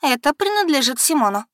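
Becky catching her sister out; распознала с упрёком; upset recognition. Acted. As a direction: voice jumps up, tense and accusing. Becky recognizes Simon's jacket.

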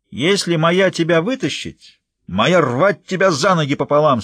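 a hint of a fierce giant queen; fierce giantess. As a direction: growl the threat down at her. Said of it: "свирепо сказала чёрная королева".

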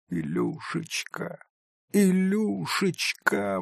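slow, high, soft wail; mother crying for her son; weeping cry. Acted. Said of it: "восклицала она".

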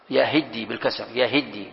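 يهدي as yahiddi, short i after the h; kasra on ha. Shown as a demonstration. Teacher showing Shu'bah's reading, i after h in يهدي. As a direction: put an i under the ha of يهدي, double the d. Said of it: "بكسر الهاء".

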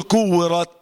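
"كورت" ending on an audible breathy ت; hissed final taa. Shown as a demonstration. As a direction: let the ت of "كورت" whisper out. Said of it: "والهمسة كده أهو".

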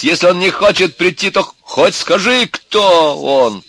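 high, loud, angry shout; shouting father. A narrator's reading. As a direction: yell it like an exasperated father. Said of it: "кричал отец". (громкий крик отца)

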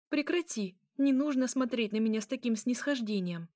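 high-pitched, bristling protest; irritated rebuke. Acted. Princess rebuking the vampire's condescending look, irritated. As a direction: push back against being patronised.

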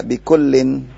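slow "bikullin" with the final n sounded; with tanwin. Shown as a demonstration. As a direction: draw out "bikullin", ending on -in. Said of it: "Itu yang di atas kurang tanwin". ("bikullin" pelan, dengan bunyi tanwin -in)

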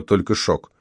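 ordinary delivery

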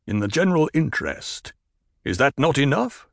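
a lightly voiced stern desert chieftain; firm tribal leader laying down the law; Stilgar. Leader explains the tribe's rule to a woman, stern.

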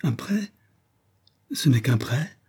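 high, astonished questioning; incredulous relief; delighted exclamation. A narrator's reading. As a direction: squeak it with dawning joy. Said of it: "s'écria Isaac Acabut".

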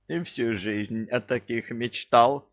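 high whining beggar; whiny high pleading voice. Acted. Thief character voice.

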